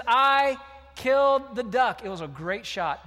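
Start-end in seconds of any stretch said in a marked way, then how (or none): 0.1-2.0 loud, slow, drawn-out admission; guilty boy confessing to his grandmother; anguished confession. Retold or imitated. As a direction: wail it out slowly, weighed down. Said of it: "He says".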